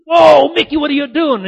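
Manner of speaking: high, loud cry of disbelief; hammed-up shocked yell; alarmed shout. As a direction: act out a startled buddy shouting to stop him. Shocked friend shouts in a story.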